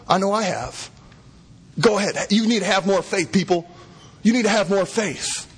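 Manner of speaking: hammed-up demanding preacher; mock pushy preacher. Shown as a demonstration. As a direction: lampoon a hard-driving faith sermon. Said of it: "bad moralistic application".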